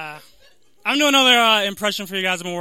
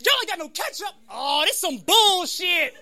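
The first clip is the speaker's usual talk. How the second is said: stereotype punchline voice; 9 semitones higher than usual. Shown as a demonstration. Demonstrating the catchphrase over missing ketchup, exaggerated high outrage. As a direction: go up high and stretch the last words. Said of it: "You could be like".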